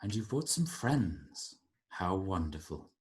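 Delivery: soft, measured villainous dad; composed father. Acted. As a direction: greet a daughter with quiet control. Game master plays Juniper's father.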